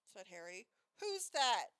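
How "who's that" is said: gurgled, like while gargling; gurgling. A narrator's reading. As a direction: speak as if through gurgling water. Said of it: "gurgled Mor".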